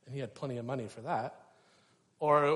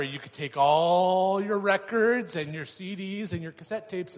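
louder, higher, gushing about the gadget; excited preaching; 5 semitones higher, 8 dB louder than usual. Acted. Preacher hyping an old iPod to the congregation, excited. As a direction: sell the wonder of it to the room.

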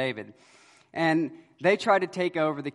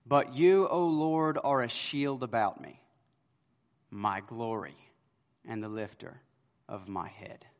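David's prayer, firm then hushed; reverent prayer; 5 semitones lower, 3 dB quieter than usual. Retold or imitated. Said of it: "This is how he calls out to God".

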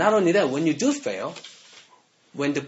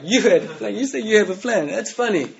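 lightly voiced God, higher and louder; amused God; 6 semitones higher, 4 dB louder than usual. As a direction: tease the plan like an amused God. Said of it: "he just starts laughing".

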